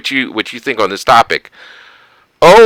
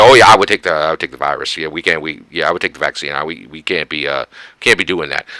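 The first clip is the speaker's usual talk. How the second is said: put-on much lower, quieter fumbling old-man mumble; imitating Biden; 9 semitones lower, 3 dB quieter, faster than usual. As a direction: mumble it like a flustered Biden backpedalling. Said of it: "He's like".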